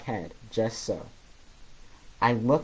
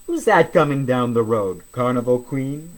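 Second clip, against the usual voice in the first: jovial call; 8 dB louder than usual. Acted. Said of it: "Uncle Ewart laughs".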